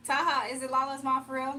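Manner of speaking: loud surprised for-real question. Real, not acted. Streamer asking a viewer, loudly surprised, whether it is really Lala's mom. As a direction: ask in loud disbelief.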